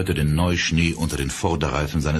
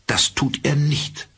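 kühl und schroff; 8 semitones higher, slower than usual. A narrator's reading. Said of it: "in ihrem kühlsten und schroffsten Ton".

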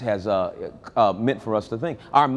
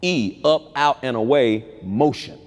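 "E, up, out, and away, motion" each part set apart; spelled-out word; 3 semitones lower than usual. Shown as a demonstration. Preacher breaks down the word emotion, part by part. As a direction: break "emotion" into parts with pauses. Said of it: "Hence the word emotion".

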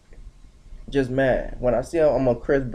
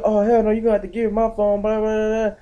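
ghetto sister attitude; 6 semitones higher, faster than usual. Retold or imitated. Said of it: "she got ghetto".

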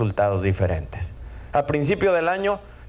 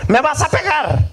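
put-on much higher, slow child's voice; a little son afraid of being hit, higher and slow; scared child; 12 semitones higher, 5 dB louder than usual. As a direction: ask fearfully like a small boy. Frightened son asks father.

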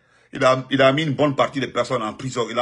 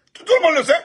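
high, loud burst of insistence; emphatic outburst; 14 semitones higher, 6 dB louder, faster than usual. Real, not acted. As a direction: shout down the doubters.

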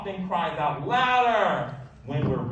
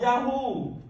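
high, loud whoop of joy; joyful yell; 9 semitones higher, 3 dB louder than usual. A narrator's reading. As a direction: shout it like you just won. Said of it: "we yelled".

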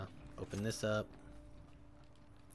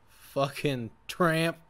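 slow taunt; 3 semitones higher, 5 dB louder, much slower than usual. Real, not acted. Taunting dead enemy.

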